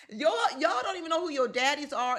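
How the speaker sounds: high voice breaking into laughter; laughing roast. Real, not acted. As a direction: tease the audience while laughing.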